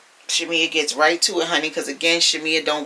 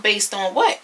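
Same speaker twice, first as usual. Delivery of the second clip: higher-pitched mock disbelief; imitated incredulous challenge; 4 semitones higher than usual. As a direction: toss it out like a retold "excuse me?". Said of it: "Angela swung her head around".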